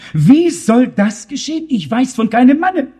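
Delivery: Mary asking in startled disbelief; mildly startled question. Acted. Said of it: "fragte sich erschrocken".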